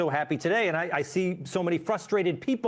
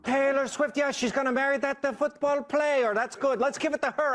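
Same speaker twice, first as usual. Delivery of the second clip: put-on Italian accent; 5 semitones higher than usual. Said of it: "then you went Italian".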